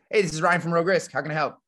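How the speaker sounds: friendly phone greeting. Shown as a demonstration. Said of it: "the one I use the most is".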